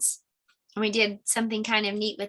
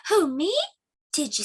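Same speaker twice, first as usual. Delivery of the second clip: higher, louder squirrel voice; chattery squirrel; 7 semitones higher, 4 dB louder than usual. Acted. Squirrel character.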